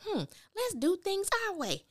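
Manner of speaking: high, put-on seductive Sabrina voice; Sabrina's come-on. Imitating Sabrina luring Calvin, high and coy. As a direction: purr it high like a teasing temptress. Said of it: "Sabrina saying".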